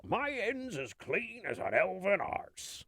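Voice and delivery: high, drawn-out put-on cry; game character outburst. Game line blurted in a business meeting, comic outburst. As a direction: belt out a slow, high-pitched character catchphrase.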